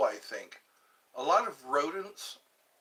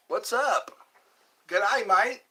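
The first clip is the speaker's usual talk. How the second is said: excited greeting; 6 semitones higher, 8 dB louder, slower than usual. Acted. Playful greeting with Aussie phrase.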